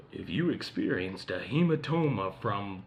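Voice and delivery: lawyer ad voice. Retold or imitated. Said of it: "like, lawyer ads".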